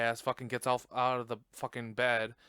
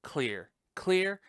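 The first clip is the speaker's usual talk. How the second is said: higher, urgent call of clear, clear; doctor calling clear; 6 semitones higher than usual. Retold or imitated. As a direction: shout clear, clear like a medic before the shock. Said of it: "defibrillator scene".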